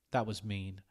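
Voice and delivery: ordinary delivery, nothing marked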